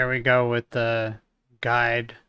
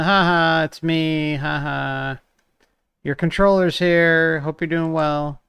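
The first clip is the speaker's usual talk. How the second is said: lightly voiced cheeky guide, louder and higher; a prankster spirit popping out; playful guide; 4 semitones higher, 5 dB louder than usual. Guide mocking the newcomer.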